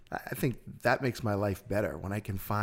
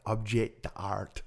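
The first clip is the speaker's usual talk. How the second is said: put-on objet d'art in a French accent; much slower than usual. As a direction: say it like the French, drawn out. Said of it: "that is such a French accent".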